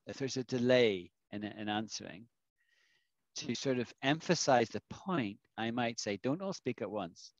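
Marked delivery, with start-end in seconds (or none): 6.2-7.3 sarcastic. Shown as a demonstration. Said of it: "I'm being completely sarcastic".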